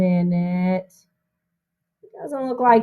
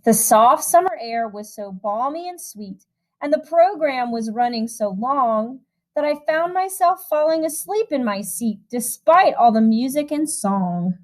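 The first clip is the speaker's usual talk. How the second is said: lilting storybook reading voice; rhythmic, gentle picture-book narration; reading to children; 3 semitones higher than usual. A narrator's reading. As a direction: read the rhyme aloud to a room of kids. Reads a rhyming picture book.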